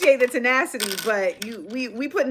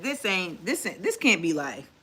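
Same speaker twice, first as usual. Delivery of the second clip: despairing mutter; 5 semitones lower, 8 dB quieter than usual. Retold or imitated. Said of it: "I said".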